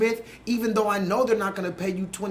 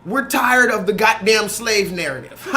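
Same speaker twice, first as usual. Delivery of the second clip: laughing quote; 4 dB louder than usual. Retold or imitated. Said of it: "Black Twitter said".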